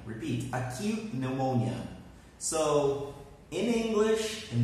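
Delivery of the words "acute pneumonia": "pneumonia" begun with n, the P dropped; silent P. Shown as a demonstration. Teacher has students repeat, silent P in "pneumonia". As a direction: pronounce "pneumonia" carefully without its P. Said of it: "we do not pronounce the P".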